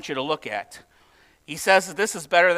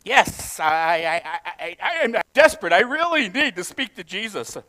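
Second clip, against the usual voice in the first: desperate caller. Acted. Plays a desperate caller stammering.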